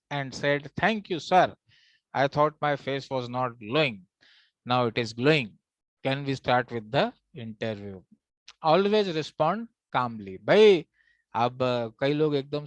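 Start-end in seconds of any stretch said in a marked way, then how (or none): 0.8-8.0 slow, composed retold answer; measured politeness, settling lower after the thanks; calm, polite reply. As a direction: answer the interviewer unruffled and unhurried. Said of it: "calmly took out my hanky".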